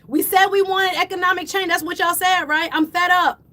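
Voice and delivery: real emotional outburst; worked-up yelling. Real, not acted. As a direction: keep the fed-up rant going. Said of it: "I gotta stop yelling".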